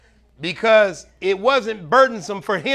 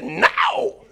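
sharp high laughing no; emphatic no; 13 semitones higher than usual. Retold or imitated. Wife answers husband asking if she's tired of him, emphatic laughing no. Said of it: "she said it like that too".

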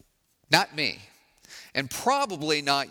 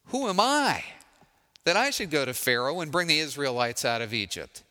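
lightly voiced reluctant Moses; hesitant Moses. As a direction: let Moses balk at the task. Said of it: "you can hear the hesitancy in his voice".

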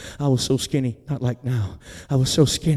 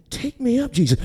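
higher-pitched, small quick plea; quick obedient repeat; 7 semitones higher than usual. Retold or imitated. She repeats it to Jesus, high and quick. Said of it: "And she said".

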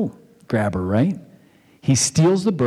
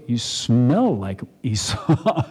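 slow suspicious sniff; much slower than usual. Retold or imitated. Blind Isaac sniffing goat fur.

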